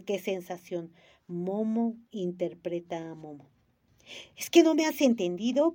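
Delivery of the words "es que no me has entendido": sharp, hard question, louder; harsh. A narrator's reading. Gigi snapping at the lady for pressing him. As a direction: demand it harshly. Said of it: "preguntó Gigi con dureza".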